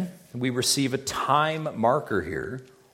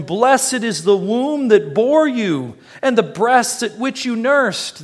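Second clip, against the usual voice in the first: higher, slow, calling out from the crowd; raised voice; 8 semitones higher, 5 dB louder, slower than usual. Retold or imitated. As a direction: cry it out like a woman in a crowd. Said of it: "a woman in the crowd raised her voice".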